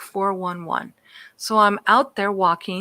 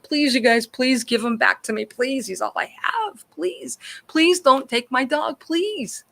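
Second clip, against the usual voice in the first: retold pleading; 2 semitones higher than usual. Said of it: "got on my knees".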